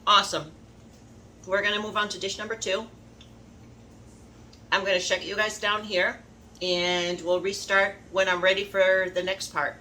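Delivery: talking through a mouthful; chewing while talking; mouth full. Real, not acted. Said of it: "Sorry, talking with my mouth full".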